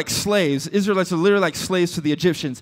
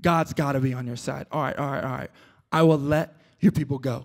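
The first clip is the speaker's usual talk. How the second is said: low, soft, worn-down surrender; acted weary resignation; sick and tired; 7 semitones lower, 7 dB quieter, faster than usual. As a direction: give in wearily, much quieter and lower. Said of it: "Pharaoh is sick and tired of it".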